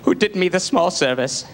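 a lightly voiced, mock-tearful host; milk the thank-you with hushed pomp; James Lipton, tearful. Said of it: "quoting, he's like".

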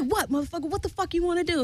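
high mock challenge, held back in volume; hammed-up taunting; retold confrontation. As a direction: act out squaring up, pitched high. Acting out her own face-off.

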